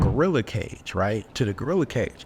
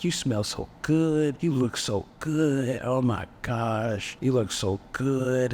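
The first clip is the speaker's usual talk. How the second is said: lovey-dovey; slower than usual. Retold or imitated. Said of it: "just all lovey-dovey".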